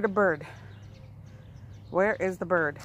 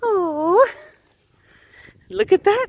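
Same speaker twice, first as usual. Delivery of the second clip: pleased surprise; 8 semitones higher, 7 dB louder, slower than usual. Real, not acted. Dog catches flicked ball.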